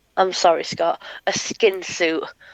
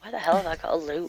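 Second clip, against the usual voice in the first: whispered aside; 6 dB quieter than usual. Real, not acted. Muttered aside to self.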